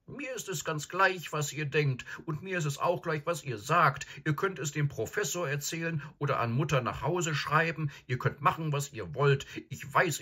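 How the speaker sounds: put-on high, upset girl's voice; hurt and defiant through tears; little sister crying, insisting; tearful defiance. A narrator's reading. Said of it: "in Tränen aufgelöst".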